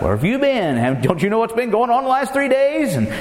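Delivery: a touch of bewildered grief in their voices; voicing the disciples. Preacher retelling the Emmaus disciples, mildly dismayed.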